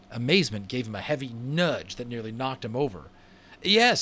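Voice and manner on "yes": put-on boy's voice. A narrator's reading. Omri answers brother.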